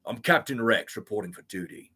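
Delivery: crisp soldier reporting in; lightly voiced clone trooper report; Captain Rex voice. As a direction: clone captain snapping to duty. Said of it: "I can do a Clone Trooper voice".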